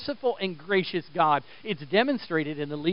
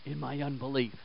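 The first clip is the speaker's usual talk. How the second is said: retold cry for help; 4 semitones lower, 10 dB quieter than usual. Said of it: "I need to cry out".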